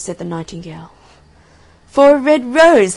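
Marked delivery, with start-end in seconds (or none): 1.9-2.9 high, loud cry of disbelief; incredulous cry. A narrator's reading. Onlookers scoff at the reason for weeping, high cry. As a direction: echo it loudly, voice leaping up. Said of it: "they cried".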